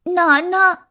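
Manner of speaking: mild tearful call of nannaa; a touch of sobbing in the call; understated weeping cry; crying out to father. Acted. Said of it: "అని ఏడుస్తూ".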